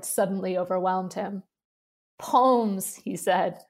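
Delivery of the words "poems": laughing. Acted. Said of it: "doubling up with laughter".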